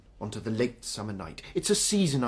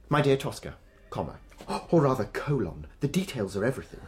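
dictating a letter with relish; grand composing voice. Acted. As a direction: savour each phrase like a poet. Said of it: "Are you still in composition mode?".

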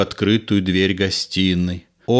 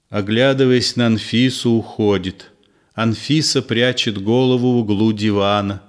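ordinary delivery

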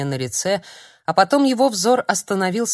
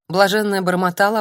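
plain reading voice

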